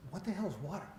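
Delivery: put-on a puzzled young fish line with a laugh in it. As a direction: deliver the punchline half-laughing. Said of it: "one of the young fish ... says".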